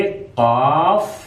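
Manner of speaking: Arabic qaf demo; slow careful qaf. Shown as a demonstration. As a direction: say काफ slowly from the throat. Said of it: "आवाज में भाई की तरह है".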